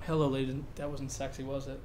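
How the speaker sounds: talking round a marker in the mouth; words muffled by a marker held in the teeth. Real, not acted. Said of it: "The marker in my mouth?".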